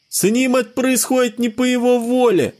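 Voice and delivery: put-on high child voice, mild yell; a boy crying out in defense, high; child shouting. A narrator's reading. Bruce defends Sebastian, high child's mild yell. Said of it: "кричал Брюс своим детским голоском".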